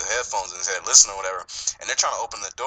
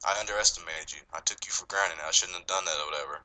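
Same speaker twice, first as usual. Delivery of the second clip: cold quiet; 5 dB quieter than usual. Retold or imitated. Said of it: "Byung-Hun Lee just tells him".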